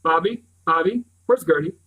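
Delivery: frantic shout for Gertie; panicked shout. Acted. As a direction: shout for the missing dog. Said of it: "And I shout".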